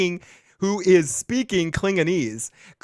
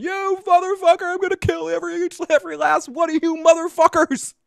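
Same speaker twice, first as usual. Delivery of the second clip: much higher, fast mock scream; mock Klingon rage; 13 semitones higher than usual. Host voices Tyler screaming at the crew, high mock rage. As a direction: screech the threat like a cartoon villain.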